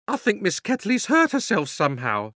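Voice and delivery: high, eager maid calling; excited housemaid. A narrator's reading. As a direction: call out like a thrilled maid. Housemaid reports.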